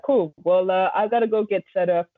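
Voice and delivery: a hint of a bad American accent; rubbish American accent. Quoting the American DJ, rough American accent. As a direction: lightly imitate an American, not very well. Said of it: "doing a really rubbish American accent".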